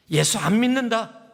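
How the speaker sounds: loud high mock declaration of quitting faith; mock defiant outburst. Fed-up believer loudly renouncing faith, mock outburst.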